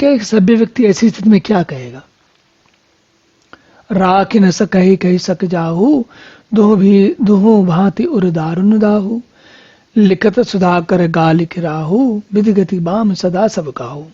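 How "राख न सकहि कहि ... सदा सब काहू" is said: slow, drawn-out scripture verse; verse recitation. Acted. Preacher reciting Ram's query to the congregation, measured verse recitation. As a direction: recite the couplet with stretched line endings.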